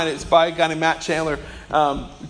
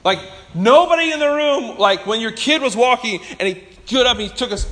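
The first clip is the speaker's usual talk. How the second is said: ordinary talk, nothing marked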